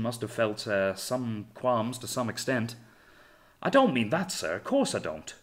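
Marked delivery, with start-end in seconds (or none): 3.6-5.3 indignant. Acted. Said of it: "said Hales indignantly".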